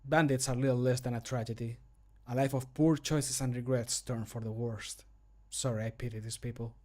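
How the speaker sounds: long deliberate beats after "tragedy" and "worst"; overdone gaps. Shown as a demonstration. Voicing a game character's line, overdone gaps after "tragedy" and "worst". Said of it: "overdid it a little bit with the gaps".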